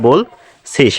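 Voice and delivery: "বলছিস" slowly split as "বোল-ছিস"; প্রমিত উচ্চারণ. Shown as a demonstration. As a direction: pause between bol and sis in "বলছিস". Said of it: "প্রমিত উচ্চারণ এটা". ("বলছিস" ধীরে ভেঙে বোল-ছিস)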